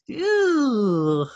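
disgusted. Real, not acted. Grossed out by own roster.

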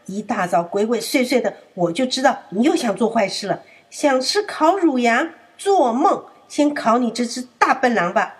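mock angry old elephant; angry scolding. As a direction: grandpa catching the wolf. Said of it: "象爷爷很生气地说：".

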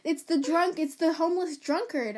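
high, loud burst of glad surprise; excited recognition. Retold or imitated. Marty spotting the homeless drunk he knows, excitedly. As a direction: greet the old drunk like a long-lost friend. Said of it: "he goes".

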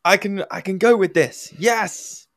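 high, loud mock triumph; triumphant gloating. A teacher gloating to himself over his praise, in high loud mock triumph. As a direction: crow it like you've cracked teaching. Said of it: "you start to go".

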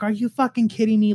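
mock-irate quick quote; retold going off. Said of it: "Like, going off".

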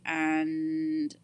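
slow, trailing mumble to self; drawn out. Real, not acted. Podcaster sorting out her MacBook mid-recording, drawn out. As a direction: stretch the last word right out, half-voiced.

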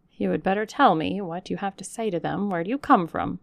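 a hint of a wary housekeeper, firmer; suspicious servant. Servant interrogating a stranger at the door, wary. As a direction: question her like an intruder.

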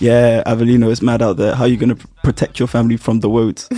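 "woads" with a w for the r in roads; imitating Semtex saying "woads" instead of roads; says w for r. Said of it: "Semtex can't pronounce his R's".

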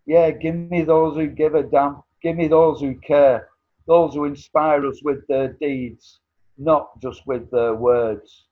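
rousing, defiant spoken word; fiery revolutionary speech. Acted. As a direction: build it up like a rally cry. Poem climax.

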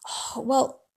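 hushed, scandalised parent; shocked whisper. Retold or imitated. Parent hushes disapproval about leaving the kids, whispering.

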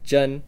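"zhen" with a high level tone; Mandarin zhen. Shown as a demonstration. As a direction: say "zhen" clearly, Mandarin style. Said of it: "The example is".

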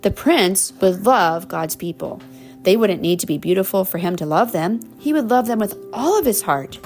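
warm storybook reading; reading to children. Acted. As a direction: read it like a bedtime story. Reading picture book to child.

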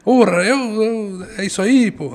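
put-on high Italian-accented Portuguese. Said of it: "Um sotaque italiano que ele tinha".

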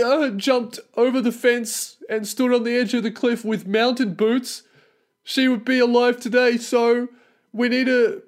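high, mocking whiny parent voice; parents' news excuse, mocked in a high whiny voice. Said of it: "They say that".

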